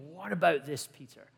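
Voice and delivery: Jesus calmly soothing Peter, understated. Acted. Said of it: "Jesus says calmly".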